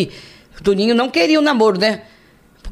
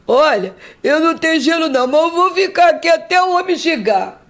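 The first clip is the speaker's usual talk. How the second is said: put-on higher, altered voice of the drunk; drunk man's voice; 6 semitones higher than usual. The drunk promises to wait with her, mild drunk voice. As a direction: lightly voice the drunk staying by her.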